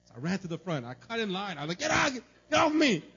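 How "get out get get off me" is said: high, loud, hammed-up shoving yell; mock yelling. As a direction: playfully bark them out of the way. Retold pushing through prayer line.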